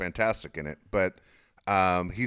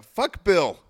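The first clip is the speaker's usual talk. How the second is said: louder, higher mock yell; imagined yell; 8 semitones higher, 6 dB louder than usual. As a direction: yell it out as he might have. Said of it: "just yelled out".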